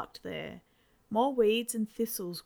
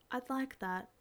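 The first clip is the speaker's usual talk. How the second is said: soft, softer and tender; gently; 4 semitones higher, 5 dB quieter than usual. Acted. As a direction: say it gently to him. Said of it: "she said gently".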